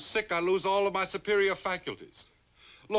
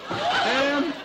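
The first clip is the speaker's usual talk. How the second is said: calling out; 6 semitones higher, 6 dB louder than usual. Acted. Calling from upstairs.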